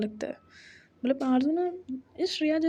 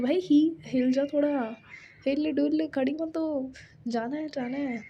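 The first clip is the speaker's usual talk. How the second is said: excited urging. Retold or imitated. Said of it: "ऐसे excited होके".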